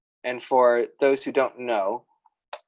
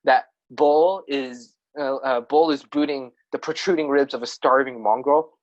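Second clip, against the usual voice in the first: dramatic showing version. Shown as a demonstration. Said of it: "sound cooler".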